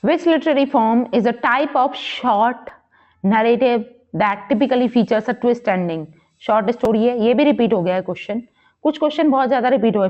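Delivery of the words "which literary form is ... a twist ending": slow, measured question read-out. Acted. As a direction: read the exam question out slowly, word by word. Reads quiz question aloud.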